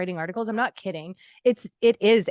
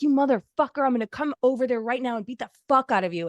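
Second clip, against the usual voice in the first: raised, angry customer threat; mock angry threat; 3 semitones higher than usual. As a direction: yell it at the phone. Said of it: "You can be like".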